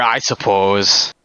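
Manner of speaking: slow, drawn-out Wisconsin accent; slow upper-Midwest Wisconsin accent. Shown as a demonstration. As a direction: stretch it out like a Wisconsin local.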